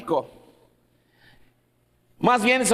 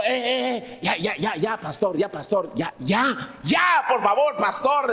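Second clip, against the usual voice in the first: pleading stranger; slower than usual. Retold or imitated. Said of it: "decía".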